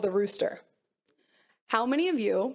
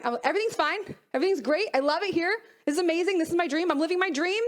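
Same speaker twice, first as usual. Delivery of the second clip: bright, higher put-on cheer hiding stress; fake cheerful imposter; 5 semitones higher than usual. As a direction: pretend everything is great, a touch forced. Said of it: "I call that the imposter".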